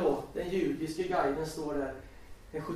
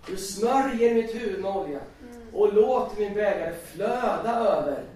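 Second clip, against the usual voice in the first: declaiming the verse; 4 semitones higher, 5 dB louder than usual. Shown as a demonstration. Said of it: "jag läste psalmen".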